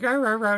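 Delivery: lightly imitated small dog yapping; mock yappy bark. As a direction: yap like a little dog, half-hearted. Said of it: "like, a little yappy dog".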